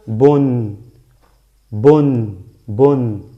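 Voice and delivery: "Bon" loud, with a sounded n at the end; short vowel then ringing n in "bon"; nunation ending. Shown as a demonstration. Teacher modelling tanwin for students, "bon" ending in clear n. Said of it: "¿cómo se pronuncia?".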